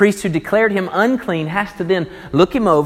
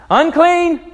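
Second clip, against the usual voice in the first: much higher, louder wail; desperate cry; 12 semitones higher, 5 dB louder than usual. Acted. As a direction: cry it out as a leper. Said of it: "This is well beyond that".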